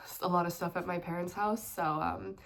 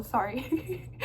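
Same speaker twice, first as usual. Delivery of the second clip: tearful; 6 semitones higher than usual. Real, not acted. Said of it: "I don't wanna cry".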